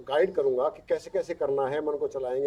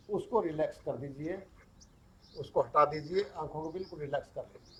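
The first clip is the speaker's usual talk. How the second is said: calm relaxation coaching with long pauses; guided relaxation; 7 dB quieter than usual. Acted. Yoga teacher easing students into yoga nidra, guided relaxation. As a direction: talk them into letting go, pausing between instructions.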